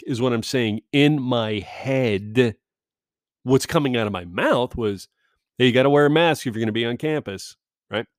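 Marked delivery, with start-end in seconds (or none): 5.6-7.6 polite reminder. Shown as a demonstration. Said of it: "Pretty much exactly like that, mind you. That tone, that cadence".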